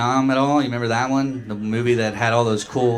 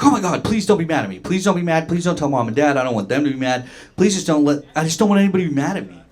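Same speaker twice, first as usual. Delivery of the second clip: imitating panicked brother; 3 semitones higher, faster than usual. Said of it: "He was like".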